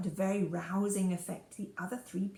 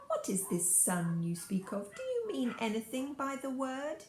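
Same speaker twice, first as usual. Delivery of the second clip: cooing softly; 3 semitones higher than usual. Acted. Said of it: "cooing softly".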